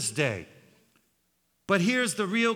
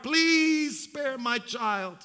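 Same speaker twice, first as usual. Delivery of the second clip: desperate mother bargaining; mother's plea; 4 semitones higher than usual. Acted. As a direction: offer anything to save the child. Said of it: "The cry of a mother's heart".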